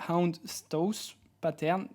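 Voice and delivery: houndstooth pattern said slowly in English with a heavy French accent. Real, not acted. A French creator naming the English keyword to viewers, in slow French-accented English. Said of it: "Excusez-moi pour mon accent qui est vraiment limite".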